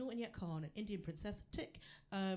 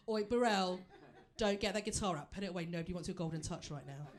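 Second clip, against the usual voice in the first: heckle; 5 dB louder than usual. Pretend. Heckling musician in pub.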